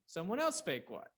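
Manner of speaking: someone ELSE emphasized, spake what trailing after; stress on ELSE. Shown as a demonstration. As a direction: put the weight on someone else. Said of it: "The emphasis tells you what's going to change".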